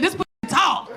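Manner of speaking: mock shouted song line; mock angry scream. Comic complaining about yelling songs, mock scream. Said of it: "angry pussy screaming at me".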